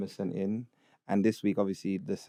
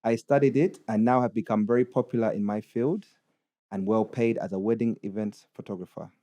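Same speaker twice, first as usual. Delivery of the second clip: put-on Ugandan accent. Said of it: "read it in a Ugandan accent".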